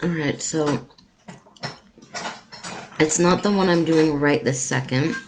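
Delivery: talking with a full mouth; chewing between words; cheeks stuffed full. Real, not acted. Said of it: "talking with my mouth full".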